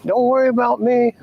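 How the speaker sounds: high, laughing reassurance. Real, not acted. Laughing while reassuring her.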